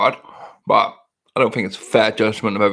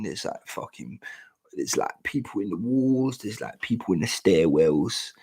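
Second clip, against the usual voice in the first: staying quiet; 2 semitones lower, 6 dB quieter than usual. Shown as a demonstration. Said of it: "speak quietly".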